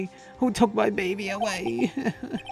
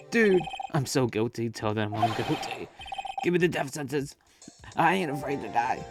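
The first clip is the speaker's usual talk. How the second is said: higher, dramatic whine; whiny Larry voice; 4 semitones higher, 3 dB louder than usual. Acted. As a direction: overdramatic and desperate. Larry begging for death.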